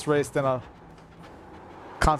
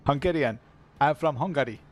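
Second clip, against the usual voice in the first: lightly put-on Hungarian accent. Shown as a demonstration. Streamer imitating Hungarian neighbours, Hungarian accent. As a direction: imitate a Hungarian speaking English. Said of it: "That's a little bit how they talk".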